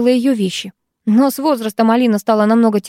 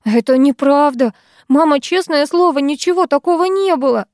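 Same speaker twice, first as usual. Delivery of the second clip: higher, pleading protest; frightened babbling; 4 semitones higher than usual. Acted. Daughter pleading innocence to her mother, mildly frightened. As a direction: plead with mother, a touch of panic. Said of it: "в ужасе посмотрела на маму и залепетала".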